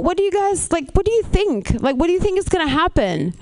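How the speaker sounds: high, exasperated demand; mock exasperated interrogation; exasperated questioning. Confronts senders of pictures.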